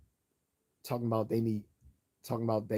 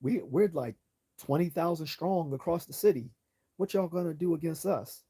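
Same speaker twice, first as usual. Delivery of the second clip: gang member voice; 8 semitones higher, 3 dB louder than usual. Retold or imitated. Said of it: "gang members talking about".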